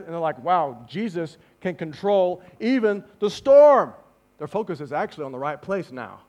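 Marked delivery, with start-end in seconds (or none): 0.4-3.9 drawn-out wonder, louder; acted excitement. Disciples marvel after the storm, excited. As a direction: marvel slowly, leaning on the words. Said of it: "They're so excited".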